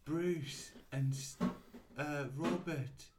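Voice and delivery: slow, drawn-out character voice; Bindi. Acted. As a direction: reassure them in a slow put-on voice. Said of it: "And then Bindi said".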